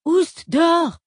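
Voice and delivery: loud, high shout of an order. A narrator's reading. Older sister shooing her sister out of the bathroom, loud command. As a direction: shove her out with a barking command. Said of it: "lui ordonna Twila".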